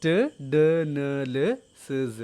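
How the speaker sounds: ട്, ഡ്, ന്, ല്, സ് each said alone with tongue tip; alveolar sounds. Shown as a demonstration. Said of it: "ഇതൊക്കെ നിങ്ങൾ പ്രൊനൗൺസ് ചെയ്ത് നോക്കുമ്പോൾ". (ട്, ഡ്, ന്, ല്, സ് നാവിൻ്റെ അറ്റം തട്ടിച്ച് ഓരോന്നായി)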